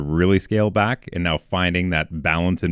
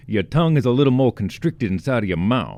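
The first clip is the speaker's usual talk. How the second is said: Kentucky accent demo; 3 semitones higher than usual. Shown as a demonstration. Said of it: "a little bit more from Kentucky".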